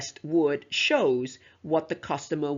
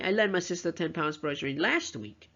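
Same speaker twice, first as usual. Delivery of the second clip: LAST pitched up before a falling WEEK; stress on LAST WEEK. Shown as a demonstration. Teacher repeats to emphasize the time, stressing "last week". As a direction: run through to a strong "last week". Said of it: "stress on the very last two words".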